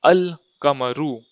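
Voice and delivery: अल कमरू with the L of अल sounded; article pronounced. Shown as a demonstration. Teacher adds the article for learners, saying अल कमरू with a clear L. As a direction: say अल कमरू, article fully voiced. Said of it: "अल लगाएंगे तो हम बोलेंगे".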